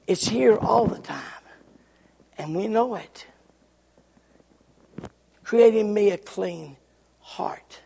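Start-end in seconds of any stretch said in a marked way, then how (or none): 5.4-7.8 hushed prayer. Acted. Quoting psalm as prayer.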